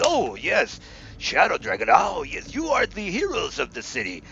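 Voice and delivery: butter up the heroes with a high, eager voice; fawning merchant. Acted. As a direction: shopkeeper flattering the city's heroes, lightly voiced and eager.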